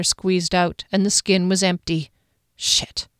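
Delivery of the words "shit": breathy whispered swear; whispered curse. Acted. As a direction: hiss it under your breath. Water runs out.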